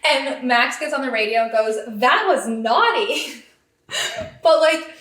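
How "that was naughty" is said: playful, slow singsong scolding; Max, gleeful. Retold or imitated. Max on the radio after Carlos defends, slow and playfully happy. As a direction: draw it out with a smile in the voice. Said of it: "you can hear the smile in his voice".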